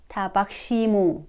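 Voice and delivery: 타박시모 rattled off quickly as tabakshimo. Shown as a demonstration. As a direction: say 타박시모 at a quick casual clip.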